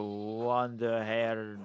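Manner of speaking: WANDER HAIR drawn out slowly; slow, careful reading of WANDER HAIR; sounded out slowly. Real, not acted. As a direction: stretch out WANDER HAIR like an unfamiliar foreign word. Sounding out unfamiliar word while reading.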